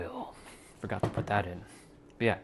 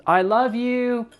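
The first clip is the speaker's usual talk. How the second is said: very high, slow, drawn-out I love you; swooning high-pitched I love you; high sing-song; 13 semitones higher, 8 dB louder, slower than usual. Shown as a demonstration. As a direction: stretch it up high and syrupy. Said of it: "Same words, but different intention behind it".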